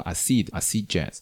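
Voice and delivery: "acid" stressed at the back, a-CID; stress on the second syllable. Shown as a demonstration. Showing listeners the mistake, "acid" with final-syllable stress. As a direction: put the weight on the end of "acid". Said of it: "那次我把重音搞错了".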